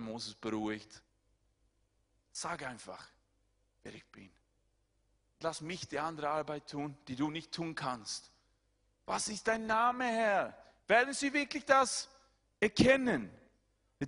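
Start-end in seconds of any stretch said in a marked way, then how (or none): 2.3-8.3 gentle reassurance. Acted. God reassuring Moses. 9.1-13.3 high, loud impassioned preaching; preaching at full force. Acted. Preacher to congregation, voicing Moses' doubt, high and loud.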